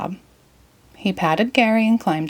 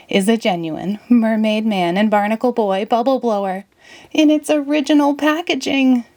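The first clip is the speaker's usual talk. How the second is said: excited; 4 semitones higher than usual. Acted. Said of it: "trembled with excitement".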